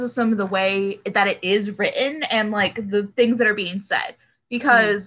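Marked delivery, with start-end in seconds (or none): 4.5-5.1 small burp from fizzy water; words caught on a burp. Real, not acted. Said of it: "I'm drinking carbonated water in my burp".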